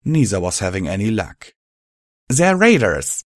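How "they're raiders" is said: much higher, louder call; shouting. A narrator's reading. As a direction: shout up at the sky. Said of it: "younger buck shouted".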